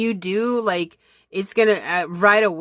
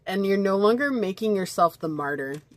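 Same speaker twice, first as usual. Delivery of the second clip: talking through hiccups; hiccuping; 2 semitones higher than usual. Real, not acted. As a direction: hiccups breaking the words. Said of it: "as I'm hiccuping".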